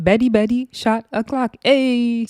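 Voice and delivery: light imitation of a Nigerian accent. Recapping girls trying the chant, imitated Nigerian accent. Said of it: "tried to do a Nigerian accent".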